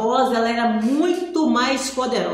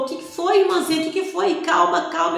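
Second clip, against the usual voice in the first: concerned church worker; 5 semitones higher, faster than usual. Retold or imitated. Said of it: "ela falou".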